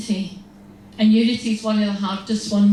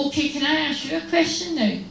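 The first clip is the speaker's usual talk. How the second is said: high-pitched, mock-innocent request; sweetly polite; 6 semitones higher, faster than usual. Sister turning the question back on advisers, sweetly polite. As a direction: ask it with put-on sweetness. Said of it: "I smile very sweetly".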